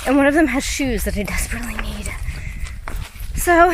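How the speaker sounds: panting while climbing uphill; breathless between words; out of breath. Real, not acted. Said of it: "sorry, I'm out of breath".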